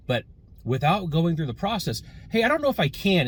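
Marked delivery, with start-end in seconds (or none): 2.3-3.3 high, loud mocking of a timid request; mocking weak ask. Shown as a demonstration. Mocking the clerk's unsure request to her manager. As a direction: sneer at the helpless way to ask. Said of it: "is not the way to ask for help".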